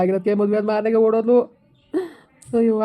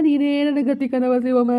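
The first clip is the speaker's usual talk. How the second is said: drawn out, higher pleading wail; hammed-up slow lament; slow plea; 4 semitones higher, slower than usual. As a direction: beg her slowly, mock despairing. Pleading with neighbour.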